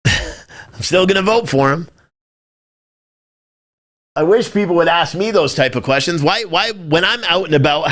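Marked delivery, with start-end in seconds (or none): 0.1-1.9 slow, said through a laugh; laughing admission. Real, not acted. To his stream audience, repeating the admission with a rueful laugh. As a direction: laugh it off while admitting it.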